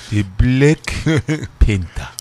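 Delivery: low, slow mumbled movie line; mock movie voice. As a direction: lightly imitate an actor. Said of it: "he be like this".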